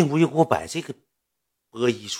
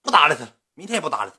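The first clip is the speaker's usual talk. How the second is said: higher, fussy grumbling woman's voice; girl venting, pitched up and annoyed; imitating a fed-up woman; 6 semitones higher than usual. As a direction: play her griping about the guy and the assistant. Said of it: "指定是这样口吻".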